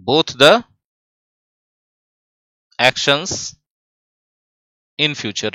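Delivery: "both the... actions... in future" with long pauses; dictation in chunks. Shown as a demonstration. Teacher writing the answer out for the class, dictation in chunks.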